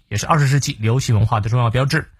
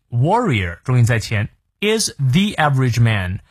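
warrior stressed on the first syllable. Shown as a demonstration. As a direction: hit the front of warrior.

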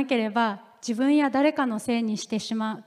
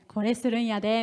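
Kansai dialect. Retold or imitated. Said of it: "みたいな感じでですね".

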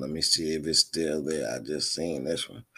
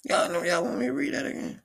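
hyped; 13 semitones higher, 4 dB louder than usual. Real, not acted. Hyped after reaction.

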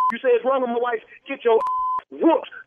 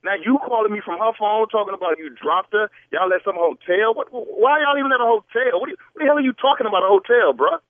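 rising anger. Real, not acted. Husband hears wife at hotel.

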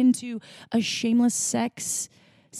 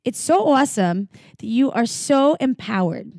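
put-on Minnesota accent; 3 semitones higher than usual. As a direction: read it like a Minnesota fan. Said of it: "Yeah, Minnesota".

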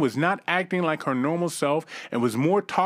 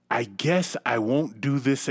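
calm voice; 5 semitones lower, slower than usual. Retold or imitated. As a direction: say it slowly, low and unbothered. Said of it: "she stated in a very calm voice".

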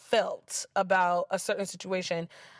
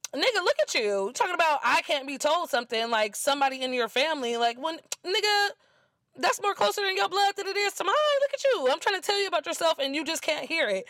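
higher-pitched, fast-running retold rant; exasperated telling-off; 5 semitones higher, faster than usual. Woman retelling how she told him about himself, exasperated. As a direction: tell him off, pitch climbing as it speeds up.

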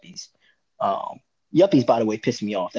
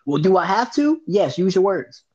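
put-on snippy girlfriend; 6 semitones higher, 3 dB louder than usual. Acted quarrel, girlfriend's side.

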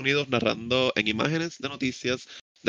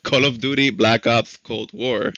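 all in one breath; 4 dB louder than usual. Real, not acted.

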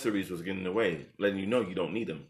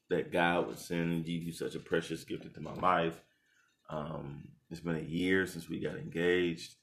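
softer, lower heartfelt words; quiet grateful dedication; sincere and tender; 4 semitones lower, 5 dB quieter than usual. Real, not acted. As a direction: speak it from the heart. Sincere toast to fiancée.

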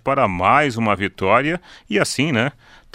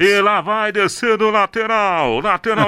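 rodeo announcer; 10 semitones higher than usual. Pretend. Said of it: "Vocês já imaginaram, assim?".

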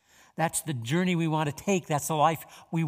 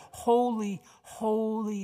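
calling out; 6 semitones higher, much slower than usual. A narrator's reading. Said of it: "they were calling to one another".

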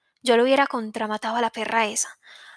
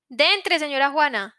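higher, raised welcome; calling back; 3 semitones higher, slower than usual. Acted. Mother calling the old woman in. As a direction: call her in from inside. Answering a call from inside.

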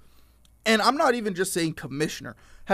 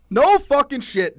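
exasperated outburst; 10 semitones higher, 7 dB louder than usual. Real, not acted.

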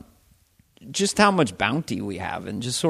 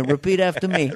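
insistent New York father, pitched up; New York actor dad; 5 semitones higher than usual. Acted. New York actor correcting his son's speech, insistent. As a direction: drill it in with New York accent. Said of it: "a thing about a New York actor".

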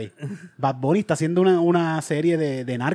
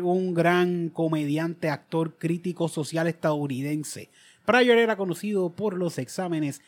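formal reading; slower than usual. Acted.

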